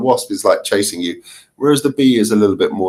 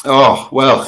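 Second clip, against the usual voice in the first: ordinary talk, nothing marked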